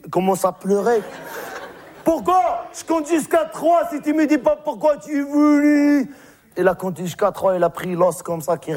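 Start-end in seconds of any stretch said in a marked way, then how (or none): 2.0-6.1 demanding. Acted. Shepherd questions the goat.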